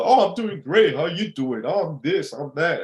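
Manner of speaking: mock upbeat greeting, the first "Oh" pitched high; fake cheerful. Mimicking a fake-friendly customer answering a greeting. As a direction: imitate a phony businessman's cheer. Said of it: "their fakeness in their voice".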